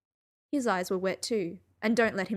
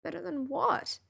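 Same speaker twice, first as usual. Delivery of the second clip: high, mildly choked-up question; choking up; 6 semitones higher than usual. A narrator's reading. Narrator challenges Sherlock's self-doubt, choking up. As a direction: ask it with tears rising, pitched up. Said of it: "I was choking up".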